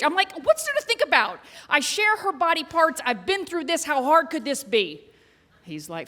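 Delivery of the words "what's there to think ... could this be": dismissive comeback. Retold or imitated. Retelling her impatient comeback in argument.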